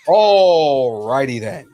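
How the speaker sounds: Ace Ventura voice. Retold or imitated. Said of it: "quoting from Ace Ventura".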